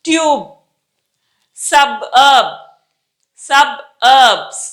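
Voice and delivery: ట్యూబ్ and SUBURB with lips closed hard on B; careful word-by-word model; pressed B. Shown as a demonstration. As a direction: split SUB-URB, each B firm. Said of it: "lips close చేసి చాలా బిగిచ్చి".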